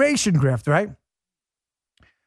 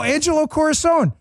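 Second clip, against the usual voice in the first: normal talking voice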